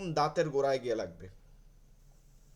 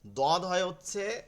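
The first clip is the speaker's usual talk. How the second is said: slow teaching read; 4 semitones higher, much slower than usual. Shown as a demonstration. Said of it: "এর পরের হরফগুলো আমরা করব".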